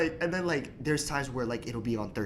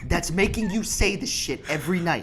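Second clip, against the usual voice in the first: higher, louder mock outburst; retold rant at mom, pitched up; exasperated accusation; 7 semitones higher, 4 dB louder than usual. Son fed up with mom's nightly request, exasperated.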